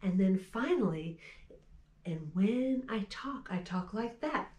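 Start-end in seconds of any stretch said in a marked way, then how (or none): 2.0-4.5 whispered line. Shown as a demonstration. Showing the song's talking line.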